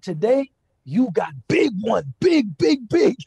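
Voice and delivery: put-on mild Indian accent, slow then swelling on big; lightly Indian-accented praise, bigs pushed loud. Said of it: "He was Indian".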